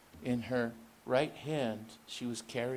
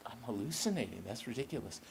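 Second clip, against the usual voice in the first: inner thought; 7 dB quieter, faster than usual. Acted. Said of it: "she thought".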